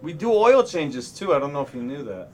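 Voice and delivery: put-on mechanic with a Boston accent. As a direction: explain it like a Boston grease monkey. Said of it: "I'll do a Boston Mechanic to read it".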